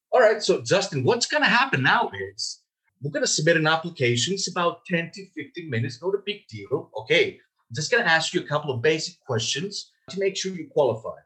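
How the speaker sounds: upbeat phone salesman; sales pitch demo. Shown as a demonstration. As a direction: move the prospect along like it's routine. Demonstrating a sales script to prospect.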